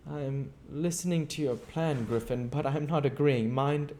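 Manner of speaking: a feverish, scheming madman, loud and high; Invisible Man's scheming. Acted. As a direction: pitch it up and push it out like a man drunk on his plan. Griffin's voice continues.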